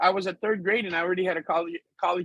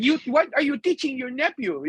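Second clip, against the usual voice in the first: put-on mom's Filipino accent; 4 semitones higher than usual. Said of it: "her Filipino accent comes out".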